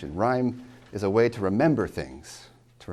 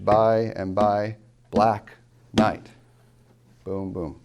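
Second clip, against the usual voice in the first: slow by and by black night, BLACK and NIGHT each hit separately; successive stresses; 6 dB louder, much slower than usual. Shown as a demonstration. Teacher reads the seventh line, successive stresses. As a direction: land heavily on by, black, night, then boom, boom. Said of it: "Three straight stressed".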